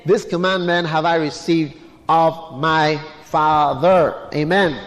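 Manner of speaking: low, brisk Bible reading that slows to a close; scripture reading. Acted. Preacher reading Jesus' words to the congregation, low scripture reading.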